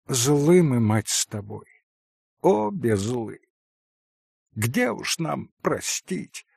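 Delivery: understated poisonous spite; mildly venomous rival. Acted. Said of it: "ядовитым, отравленным злобой голосом".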